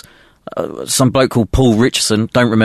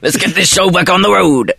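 laughing; 7 semitones higher than usual. Real, not acted. Laughing while moving the show on.

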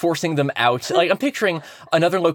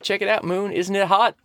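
higher, eager show-off voice; showing off a prize to a crush; flirty pitch; 4 semitones higher than usual. Pretend. Pitching a car to the Moon.

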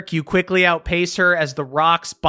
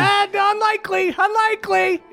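high, curt mother voice; dismissive mother. Acted. Mother brushing off son's hope, high and curt.

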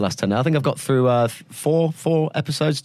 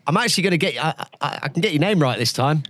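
talking through a mouthful of food; words round a bite of food; mouth full; 3 semitones higher, faster than usual. Real, not acted. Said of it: "you've got a mouthful of food".

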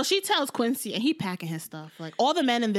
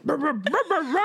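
angry growling noise; 3 semitones higher than usual. Retold or imitated. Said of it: "He was all".

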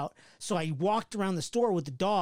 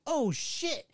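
mock shock; 10 semitones higher than usual. Sees ex-girlfriend.

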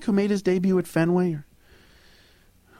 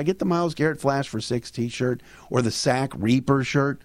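upbeat sponsor read, brisk. Acted. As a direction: sell the shirts like a host. Sponsor read mid podcast.

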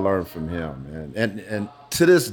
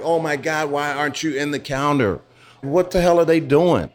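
put-on higher, excited girlish gush; gushing fans; 5 semitones higher than usual. Girls pestering him, gushing high and eager. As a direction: play the starstruck girls asking why.

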